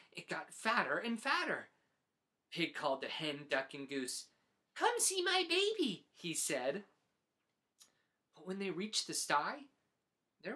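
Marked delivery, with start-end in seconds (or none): 4.7-6.1 much higher, eager call; proud pig calling friends over. Acted. Pig calls Hen, Duck and Goose, high and eager.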